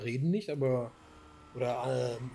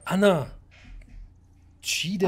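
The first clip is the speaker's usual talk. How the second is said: raised, high call to friends; 5 semitones higher than usual. Real, not acted. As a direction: call each name out to get attention. Calling other players by name.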